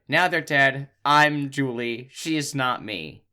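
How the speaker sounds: hammed-up teen dumping backstory; moody teen. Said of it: "She says".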